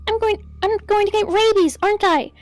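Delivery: mild rising panic; panicky. Acted. Anxious explorer finding bats in the mine, panicky fretting. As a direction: fret aloud, working yourself up.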